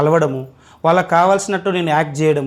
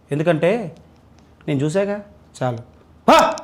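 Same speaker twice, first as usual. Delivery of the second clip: villain dialogue. Pretend. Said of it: "విలన్గా చెప్పండి first".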